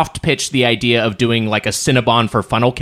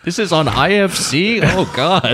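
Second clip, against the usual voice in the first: granny voice; 4 semitones higher, slower than usual. Acted. Continues old lady bit.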